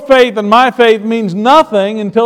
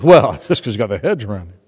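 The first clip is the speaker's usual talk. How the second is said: sly devil; 4 dB quieter than usual. Acted. Devil answers God in story.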